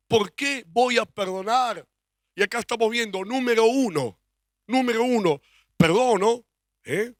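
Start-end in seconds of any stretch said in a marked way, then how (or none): 0.1-1.9 slower, weighing each word; slower question. Shown as a demonstration. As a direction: let the question sink in slowly. (pregunta aún más lenta)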